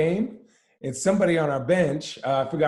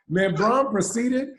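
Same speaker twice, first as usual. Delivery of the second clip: ordinary delivery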